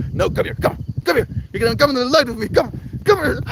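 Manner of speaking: high, breathless mock dragging; playful coaxing. Friends dragging a reluctant Mel into the light, high playful coaxing. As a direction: coax someone into the light, half-laughing. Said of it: "We're like".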